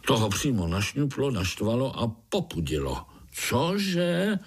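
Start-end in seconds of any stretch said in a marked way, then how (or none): 3.5-4.4 spider's shocked shout; roaring what. A narrator's reading. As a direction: bellow it in disbelief. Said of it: "zařval".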